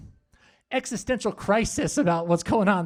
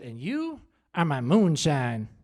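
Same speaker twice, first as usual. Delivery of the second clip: slow, lower comic endearment; stretched-out mock declaration of love; mock-romantic blurt; 5 semitones lower, slower than usual. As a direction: answer sweetness with drawn-out clumsy devotion. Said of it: "which just blurted out".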